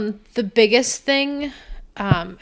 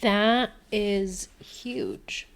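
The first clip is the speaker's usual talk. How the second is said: whispered; 8 dB quieter, much slower than usual. Real, not acted. Whispered reaction.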